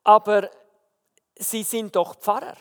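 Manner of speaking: stammering. Retold or imitated. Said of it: "angefangen zu stottern".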